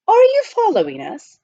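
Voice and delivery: high, loud demand; challenging cry. Acted. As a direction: call him out sharply. Butler confronts the miner face to face.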